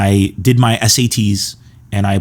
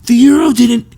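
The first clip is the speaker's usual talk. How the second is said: high, loud teacher voice, fed up; exasperated teacher; 13 semitones higher, 4 dB louder than usual. Retold or imitated. Teacher correcting pranking students, high and exasperated. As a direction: explain it through gritted teeth like a tired teacher. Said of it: "he would always be like".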